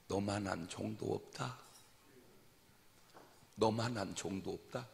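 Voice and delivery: 느리고 조용한 하나님의 음성; 다정하게 천천히 건네듯; 부드러운 응답. Retold or imitated. 하나님의 응답을 재연. (조용하고 느린 위로)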